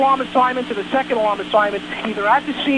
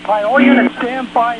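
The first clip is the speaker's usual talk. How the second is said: louder, commanding call to all units; 5 dB louder than usual. Real, not acted. Dispatcher calls all units to order, loud and firm. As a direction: cut through the radio chatter. Dispatcher calling over radio chaos.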